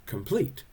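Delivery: "complete" with the second syllable stressed; "complete" as an iamb, weak then strong. Shown as a demonstration. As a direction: lean on the end of "complete". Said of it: "first syllable is not stressed".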